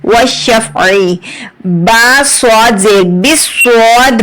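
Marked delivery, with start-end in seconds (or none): 0.1-1.2 आई with a squeezed, rubbed throat sound; squeezed throat ain. Shown as a demonstration. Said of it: "आवाज थोड़ी सी रगड़ कर आती है".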